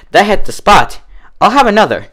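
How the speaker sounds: high, loud contentment; satisfied and eager. A narrator's reading. Dash drinking happily.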